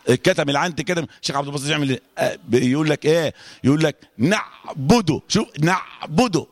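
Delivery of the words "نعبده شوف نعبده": slow "نعبده" with the ayn held tight; deliberate "نعبده", squeezed in the throat; sound stopped on ayn. Shown as a demonstration. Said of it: "كتم الصوت إزاي؟".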